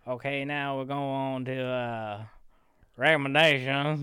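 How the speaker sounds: hammed-up Texan drawl on demand; Texan accent on request. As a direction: lean into a cowboy Texan accent. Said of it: "you want me Texan? Go".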